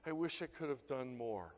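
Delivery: gasping for breath, then getting the words out; imitated sobbing kid. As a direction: act out a crying kid catching his breath. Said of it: "the kid goes like this".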